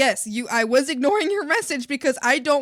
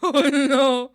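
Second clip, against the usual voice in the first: laughing oh no; 6 dB louder than usual. Real, not acted. Laughing at chat.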